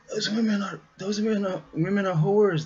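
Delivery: high, halting blurt that lands on whores; stumble, then say it straight out; blunt reveal.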